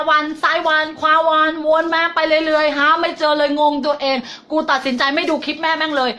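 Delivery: high, whiny student making excuses to mom; dithering student. Retold or imitated. Teacher mimicking a student who strays from her advice, high and whiny. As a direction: whine every excuse up high like a kid dodging. Voicing a wandering indecisive student.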